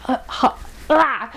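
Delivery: mock wordless cry of losing it; re-enacted spluttering outburst; imitated outburst. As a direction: act out sputtering into a rough "ah!". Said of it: "I just lost it".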